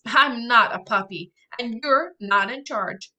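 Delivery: little brother refusing to obey his sister; defiant retort. Acted. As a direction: push back hard at his bossy sister. Brother laughs, defies sister.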